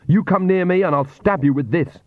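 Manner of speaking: a cornered mother shouting at the Count; shouting threat. Acted. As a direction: threaten him at the top of her voice. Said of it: "she shouted".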